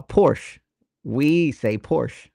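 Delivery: Porsche as one syllable; Amerikaanse uitspraak. Shown as a demonstration. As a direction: say Porsche with a silent E, like "porsh". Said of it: "that's how I grew up saying it".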